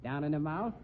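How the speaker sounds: mildly smug joke delivery; pleased with own pun. Acted. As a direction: sell the gag to them. Flash cracks a pun.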